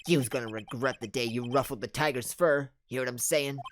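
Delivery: menacing Brooklyn gangster, lightly done; fake Brooklyn accent. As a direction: threaten in a mock Brooklyn accent. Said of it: "fake accent I'm going along with".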